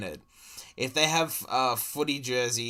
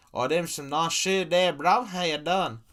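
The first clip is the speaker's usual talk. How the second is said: mock cook; 6 semitones higher, 4 dB louder than usual. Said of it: "Yeah, that's, that's closer".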